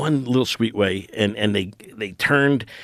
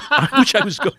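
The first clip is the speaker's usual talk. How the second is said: laughing panic; 11 semitones higher than usual. Retold or imitated. Laughing through panicked quote.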